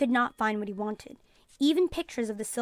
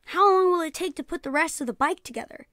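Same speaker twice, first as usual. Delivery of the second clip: eager; 5 semitones higher, 4 dB louder than usual. A narrator's reading. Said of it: "he asked eagerly".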